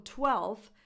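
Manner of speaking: "twelfth" said as "twelth"; dropped F. Shown as a demonstration. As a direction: go from l straight to th in "twelfth". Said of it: "is not an official pronunciation".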